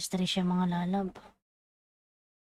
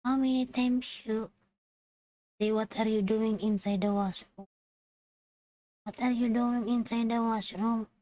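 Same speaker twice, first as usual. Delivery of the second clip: mock manager yell; 4 semitones higher than usual. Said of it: "sisigawan ka".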